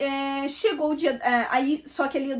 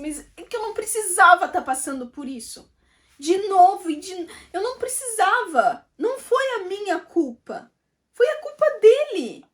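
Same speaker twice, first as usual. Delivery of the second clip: tearful protest; 6 semitones higher than usual. Retold or imitated. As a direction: plead through tears, building to an outburst. Retold crying protest to pastora.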